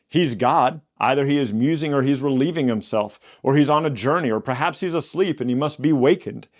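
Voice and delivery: lightly voiced taunt, pitch up; mocking. Elijah taunting the prophets of Baal, light mocking voice. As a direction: tease them about their sleeping god. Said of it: "Elijah mocked them and said".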